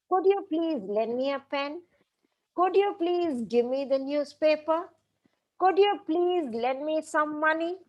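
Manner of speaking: polite requests, each ending on a gentle rise; slightly rising tone. Shown as a demonstration. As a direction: lift the end of each request a little. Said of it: "they all end with a slightly rising tone".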